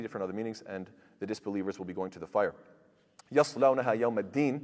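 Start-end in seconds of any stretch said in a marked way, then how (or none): 3.3-4.6 fast, chanted Quranic recitation. Acted. Teacher reciting the verse to students, chanted and fast. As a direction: recite the verse in one flowing breath.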